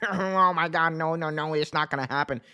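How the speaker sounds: put-on whiny denial voice; mock outraged fans. Mocking WWE fans protesting at their keyboards, in put-on disbelief. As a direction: mimic a fan in exaggerated disbelief. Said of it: "WWE people be on their keyboard saying".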